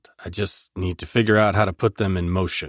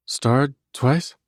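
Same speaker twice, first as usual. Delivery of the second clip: surprised; 7 semitones higher than usual. Acted. Heroine surprised, narrowed eyes.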